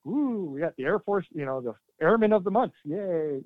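mock the chirpy Air Force crowd; mocking Air Force cheer. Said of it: "everybody's like".

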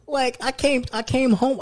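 high, laughing through the words; telling it while cracking up. Real, not acted.

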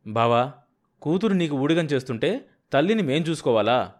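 loud, harsh accusing question; brother-in-law confronting the husband. Acted. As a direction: demand it harshly. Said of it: "పరుషంగా అడిగాడు".

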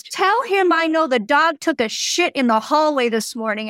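indignant, emphatic retold complaint; mock-angry tattling; retold pissed-off woman. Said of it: "So then she gets pissed".

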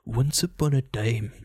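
lightly mocked Scottish bedtime narrator; a touch of Scottish fairy-tale opening; Scottish storyteller. Imitating a bedtime story app, light mock Scottish. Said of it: "adult bedtime story".

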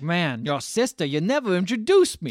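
odd put-on voice. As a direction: drag it out like a smitten creep. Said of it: "I don't know why it sounds like that".

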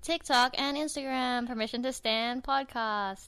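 flat, even robotic read. Acted. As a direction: rattle it off like a machine. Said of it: "you sound like a robot".

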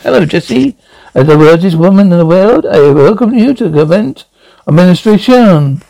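acted French accent, lilting greeting. Statue welcomes Jesse to the convent, French accent. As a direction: welcome her grandly with a light French accent. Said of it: "speaking French accent".

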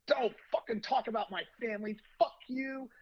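loud, high imitation of a furious man; retold screaming. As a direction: mimic him yelling, voice pitched well up. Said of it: "He starts screaming at me".

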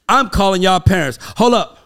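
imitating the principal; stern principal. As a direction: bark it like an irritated principal. Principal threatening to call parents.

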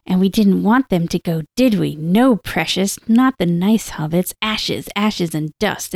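lightly voiced, hesitant Gollum; Gollum attempt. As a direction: attempt Gollum with only a hint of creature. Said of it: "I can't do the voice at all".

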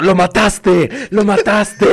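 mock panicked yelling; mock shout. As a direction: accuse him, hammed up. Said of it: "le empezaste a gritar".

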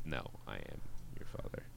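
whispered Vader line; low haunting voice. Retold or imitated. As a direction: breathe it low and soft.

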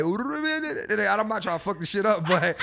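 hammed-up fight-night introduction; Michael Buffer impression. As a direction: stretch it out like a boxing announcer. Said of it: "Michael Buffer would be like".

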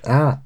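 "Out" with a broad, open vowel; own-accent pronunciation. Shown as a demonstration. Showing co-hosts how we pronounce "Out", open-vowelled. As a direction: demonstrate "Out" close to "aht". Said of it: "That's how we pronounce out".

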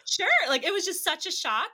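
high, loud, laughing delight; laughing disbelief. Real, not acted. Wife recalling the company's surprise yes, laughing disbelief.

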